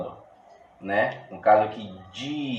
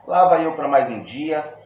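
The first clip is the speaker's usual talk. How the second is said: reciting verse; 4 semitones higher, 6 dB louder than usual. Shown as a demonstration. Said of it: "o primeiro verso ele é livre".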